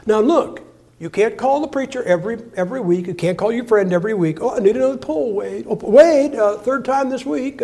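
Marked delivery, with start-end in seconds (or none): 4.4-7.6 higher, whining beg for help; whiny plea. Retold or imitated. Needy churchgoer begs friend Wade for another pull: higher whine.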